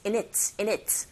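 "in it" run together lightly as i-nit; quick linked function words. Shown as a demonstration. Teacher drills function words, "in it" linked and light as i-nit. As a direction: slip through "in it" as one unstressed word. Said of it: "머물지 않고 빨리 지나가면서".

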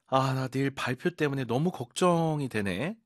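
a lightly voiced anxious student; worried student. Student worrying about tomorrow's presentation, lightly acted.

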